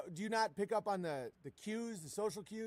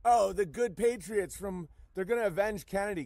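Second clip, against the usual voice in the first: mocking QAnon voice; 6 dB louder than usual. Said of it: "the Q-tards are, like, saying".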